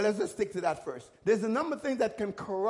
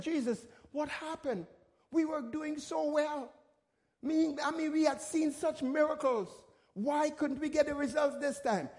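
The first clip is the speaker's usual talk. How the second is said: puzzled disciples; 6 semitones higher than usual. Retold or imitated. Puzzled disciples asking Jesus.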